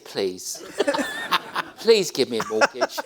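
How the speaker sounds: pleading. Retold or imitated. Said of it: "I said".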